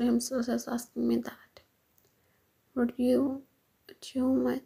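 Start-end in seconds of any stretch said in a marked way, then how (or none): 2.7-4.6 repeating words, stammering; stutter. Acted. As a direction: stumble over the words. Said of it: "stuttering state".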